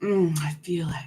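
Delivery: candy in the mouth, whispering; mouth full. Real, not acted. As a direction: whisper around a squishy candy. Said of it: "I'm having a candy that squishes in my mouth".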